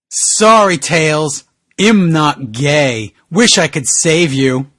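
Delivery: slow, hammed-up solemn farewell; mock solemn Sonic. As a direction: deliver it like a tragic hero. Voicing Sonic's dramatic line.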